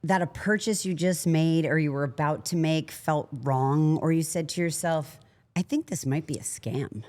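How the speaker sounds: smooth scripted sponsor read. Acted. Host reads Cash App ad to listeners, smooth ad voice. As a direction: sell it like a podcast ad.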